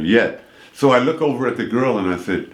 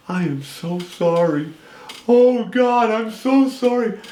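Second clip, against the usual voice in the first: tearful apology; 11 semitones higher than usual. Retold or imitated. Old lady apologizing, crying.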